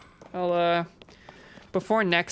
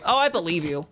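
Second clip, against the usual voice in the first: sarcastic. Real, not acted. Sarcastic reply to chat claim.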